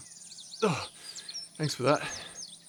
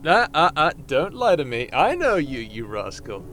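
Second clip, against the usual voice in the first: playful scolding; 5 dB louder than usual. Acted. Teasing friend about forbidden taste.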